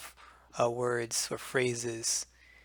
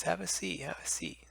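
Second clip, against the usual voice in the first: friendly invitation; 4 semitones higher, 5 dB quieter than usual. Shown as a demonstration. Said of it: "you more likely use a phrase".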